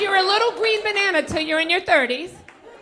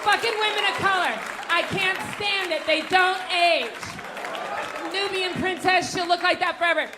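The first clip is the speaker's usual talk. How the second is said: mock-jealous rant; 4 semitones higher than usual. Ranting at women of color.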